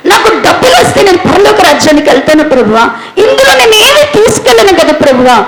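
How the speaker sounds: retold weeping prayer, voice cracking; tearful pleading prayer. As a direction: sob the questions to God, half laughing.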